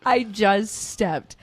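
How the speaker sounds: laughing and slowed, aghast; embarrassed giggle through the words; laughing mortified. Retold or imitated. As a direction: caught mid-gasp in the photo. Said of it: "I'm probably like".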